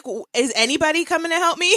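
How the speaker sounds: high, pleading mock cry for help; mock plea for help. New mother mocking her own plea to absent nurses, pitched high and pleading. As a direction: plead into an empty hospital room.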